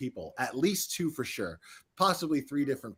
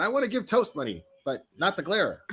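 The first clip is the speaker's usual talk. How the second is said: imitating a viewer; 8 semitones higher than usual. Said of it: "find yourself going".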